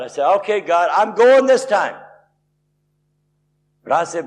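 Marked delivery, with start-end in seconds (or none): 0.4-2.0 raised, higher retold plea, last words drawn out; crying out to God. Stuck officer calls out one more time to God, retold cry. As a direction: call it out to God, stretching the end. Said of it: "I cry out one more time to God".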